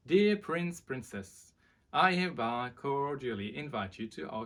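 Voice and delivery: lifted, loud herald opening; grand royal proclamation. Acted. Reading the king's invitation aloud, as a herald. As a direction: announce it like a royal crier.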